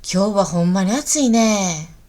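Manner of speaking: lightly Kansai-accented example sentence; Kansai dialect. Shown as a demonstration. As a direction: say it as a Kansai local would. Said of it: "関西弁だと". (関西弁で)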